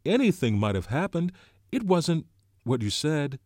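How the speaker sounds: loud, high-pitched excited protest; excitedly. A narrator's reading. Piggy denying to Ralph it was murder, excitedly. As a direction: insist at full pitch, worked up. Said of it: "said Piggy excitedly".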